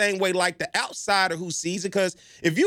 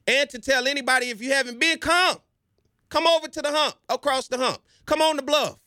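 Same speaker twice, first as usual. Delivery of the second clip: eager call to come; 5 semitones higher than usual. Real, not acted. Calling people to visit campus.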